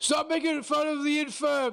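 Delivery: high-pitched shout in a character voice. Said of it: "Gromar shows out".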